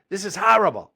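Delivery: put-on high-pitched kid complaint; whining kid. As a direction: mimic a bratty boy refusing. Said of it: "He goes".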